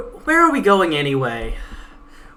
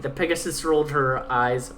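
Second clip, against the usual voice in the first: ordinary talk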